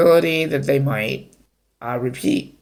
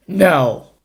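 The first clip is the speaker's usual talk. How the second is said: a sharp, louder, higher "No."; harsh no; 4 semitones higher, 4 dB louder than usual. Pretend. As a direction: snap it at the teenager like a strict parent. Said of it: "I was just acting out".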